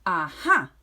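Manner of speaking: loud burst of discovery; shouted aha. Acted. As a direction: leap on the idea. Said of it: "she shouted with a jump".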